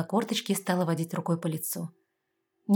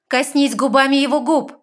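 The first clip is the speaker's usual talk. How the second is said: loud, high order; commanding; 7 semitones higher, 11 dB louder than usual. A narrator's reading. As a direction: command it sharply. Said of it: "приказала красная фея". (громкий приказ)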